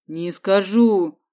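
slow, whiny refusal; scared boy refusing; plaintive. A narrator's reading. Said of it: "жалобно произнёс тот". (жалобно и медленно)

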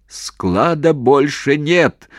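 slow, loud, high yell; shout into phone. Acted. Commander shouting again into phone. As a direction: scream it down the line. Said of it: "снова закричал в трубку".

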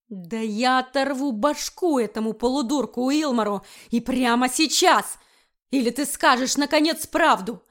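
loud, menacing ultimatum; furious threat. Acted. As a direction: demand the truth with a threat. Wickford threatens again.

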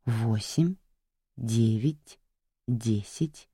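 тихо, низко, вкрадчиво; ласково-жуткий голос убийцы; зловещий шёпот маньяка. Acted. Маньяк считает, душа жертву. (тихий вкрадчивый голос маньяка)

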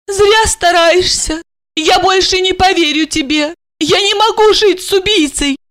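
high-pitched, sorrowful refusal; sad. Acted. Wife gives up on her husband, sadly. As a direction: turn him down mournfully. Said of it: "Она грустно покачала головой".

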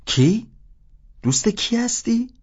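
high, incredulous who; sharp demand. Acted. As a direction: she snaps the question back up high. Woman demanding who the caller is.

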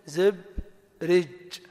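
زبرج very slowly as zib...rij; syllable-by-syllable. Shown as a demonstration. Teacher gives example for two kasras, slowly split. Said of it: "كسرتين بينهما سكون".

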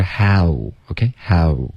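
how with a full gliding ow diphthong, slow; correct English how. Shown as a demonstration. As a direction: say how as in English, not the Chinese hao. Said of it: "英文是how".

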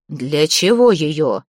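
slow, low menacing ghost voice; a slow menace from beyond the grave; dead man's voice. Acted. Dead Veres threatens Zateya, slow and menacing.

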